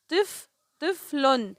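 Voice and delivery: first syllable of "طفل" alone, then the word slowly; slow teacher's split of "طفل". Shown as a demonstration. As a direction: sound out "طفل" with the first two letters joined. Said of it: "الطاء مع الفاء".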